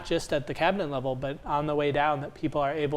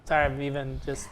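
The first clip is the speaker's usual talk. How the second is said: normal talking voice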